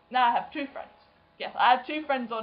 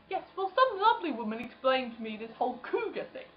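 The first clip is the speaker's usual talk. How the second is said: laughing through the quote; 3 semitones higher than usual. Retold or imitated. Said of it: "when he said".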